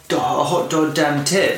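talking through ice cream; mouth full. Real, not acted. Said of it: "I've got ice cream in my mouth".

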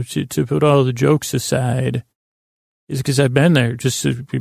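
tired creaky voice; creaky from a sleepless night. Real, not acted. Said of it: "my voice is creaky because I couldn't sleep".

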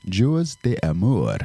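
slow put-on French accent. Shown as a demonstration. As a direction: savor it in a mock French accent. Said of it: "That's my French accent".

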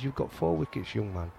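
lightly put-on Yorkshire voice, dropping away at young man; Yorkshire accent. Captain praising a young bowler after a wicket, in a light Yorkshire accent. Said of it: "I'm saying it in a Yorkshire accent".

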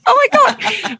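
high laughing excitement; excited squeal. Real, not acted. Host thrilled at the P O box idea, high laughing squeal.

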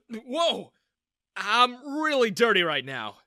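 put-on young man startled by a sudden hug; exclaiming. A narrator's reading. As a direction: yelp in surprise. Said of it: "I exclaimed".

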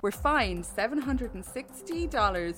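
measured newsreader delivery; news read. Acted. Co-host reading the lockdown story aloud, news read. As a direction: read it out like a radio bulletin.

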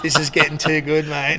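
retelling it through a laugh; amused quote with laughter creeping in; imitated amusement. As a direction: voice the tickled producers, half laughing. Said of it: "they're laughing, shaking their head".

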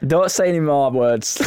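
normal talking voice

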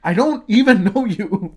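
high, loud, drawn-out exasperation; retold exclamation to himself. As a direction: act out protesting aloud in disbelief. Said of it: "saying out loud to myself".

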